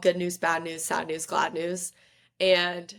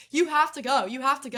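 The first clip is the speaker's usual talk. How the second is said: urging excitedly; 7 semitones higher than usual. Retold or imitated. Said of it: "like, screaming".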